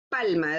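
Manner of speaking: "palma" with a long first A, falling away low; stress on PAL. Shown as a demonstration. Teacher answers her own question, stressing PAL in "palma". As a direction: lean on PAL in "palma" and let it drop. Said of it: "desde la primera, en la A".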